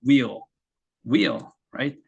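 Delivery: "Wheel" with a rounded w and falling tune; model wheel for repetition. Shown as a demonstration. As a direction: say "wheel" twice for students to copy. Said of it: "발음 한번 해보시겠어요?". (학생들이 따라 하도록 "wheel"을 또박또박)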